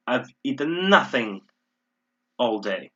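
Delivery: emphatic "nothing"; stress on nothing. Shown as a demonstration. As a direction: punch "nothing", then let the rest drop. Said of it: "Again, I'm emphasizing this".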